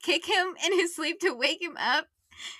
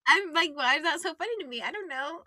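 laughing. Real, not acted. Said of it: "Are you crying right now?".

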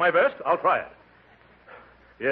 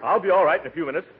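laughing through hiccups; 3 semitones higher, 3 dB louder, much faster than usual. Acted.

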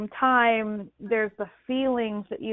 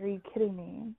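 stunned disbelief; 9 dB quieter than usual. Retold or imitated. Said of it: "I'm just like".

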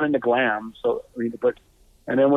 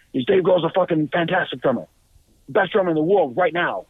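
insistent raving; 5 semitones higher than usual. Retold or imitated. John raving about a favorite drummer.

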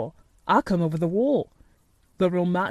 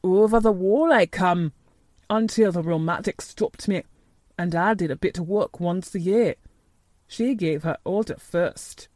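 put-on old gardener, mildly stubborn; grumpy obstinacy; 2 semitones lower than usual. A narrator's reading. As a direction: dig your heels in, a touch grumpy. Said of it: "With grumpy obstinacy".

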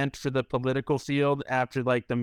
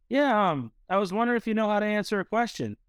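put-on cheeky teen retort; 8 semitones higher than usual. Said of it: "And I said".

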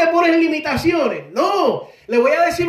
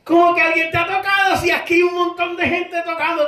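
incredulous retort; 5 semitones higher than usual. Retold or imitated. Disciples' incredulous retort, acted.

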